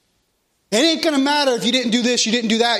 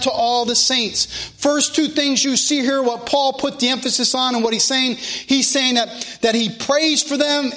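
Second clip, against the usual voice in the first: raised, steady scripture-reading cadence; preaching; 3 semitones higher than usual. Real, not acted. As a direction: preach it out to the congregation in long, driving phrases. Preaches and reads scripture aloud.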